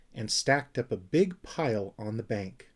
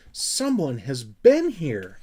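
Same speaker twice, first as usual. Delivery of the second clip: louder and slow, in alarm; alarmed shout; 2 semitones higher, 6 dB louder, slower than usual. Acted. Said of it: "he shouted in alarm".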